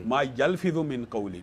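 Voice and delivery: slow, deliberate weight on یلفظ; stress on یلفظ. Real, not acted. Speaker repeats the verse to prove every sound counts, stressing یلفظ slowly. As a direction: draw out یلفظ as the key word.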